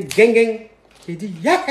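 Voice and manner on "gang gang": loud phone-slam sound effect; imitated hang-up noise. Girl hangs up on the storyteller, loud imitated hang-up noise. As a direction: mimic the click of being hung up on. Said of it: "me raccroche au nez".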